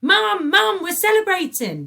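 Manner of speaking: high, loud, thrilled shout to mum; excited child calling out; excited cry. A narrator's reading. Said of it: "he cried".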